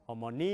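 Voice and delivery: 어머니 with the end syllable stressed; stress on the last syllable. Shown as a demonstration. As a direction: land on the 니 of 어머니. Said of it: "여기에 있으면은". (끝 음절 강세)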